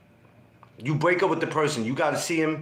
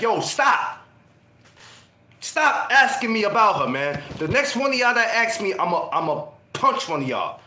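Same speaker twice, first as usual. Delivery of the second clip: mock angry warning; 3 semitones higher than usual. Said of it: "getting mad with your homies".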